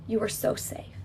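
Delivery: hushed tender reassurance; soft reassurance. Real, not acted. Healer to inner child, hushed tender reassurance.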